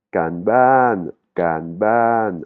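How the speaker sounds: « kanban » en deux syllabes bien séparées; détache « kan » et « ban »; deux syllabes thaïes. Shown as a demonstration. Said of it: "Il y a deux syllabes". (prononciation thaïe, syllabes distinctes)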